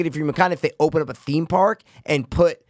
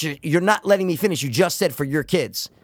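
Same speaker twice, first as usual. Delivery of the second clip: heated pundit debate. Real, not acted. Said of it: "you're getting hot over here".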